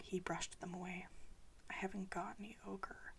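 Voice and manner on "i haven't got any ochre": a softer, mumbled admission. Acted. Boy telling his father he has no ochre, mumbled. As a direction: mumble it down into your chest. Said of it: "he mumbled".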